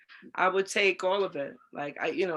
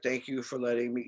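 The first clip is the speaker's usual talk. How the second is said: lowered, much softer voice as the actor asking discreetly; quiet celebrity request; 7 semitones lower, 5 dB quieter than usual. Retold or imitated. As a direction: hush it down like a star asking for privacy. Cuba Gooding thanks her.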